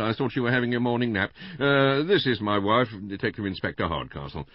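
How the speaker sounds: high, loud, hearty husband; Mister Bland, greeting. A narrator's reading. Husband greeting his wife as she walks in, loudly hearty.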